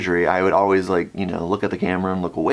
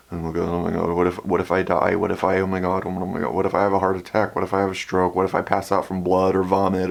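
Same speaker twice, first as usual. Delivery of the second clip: mild panic; 3 semitones lower, faster than usual. Retold or imitated. Acts out panicked hospital thoughts.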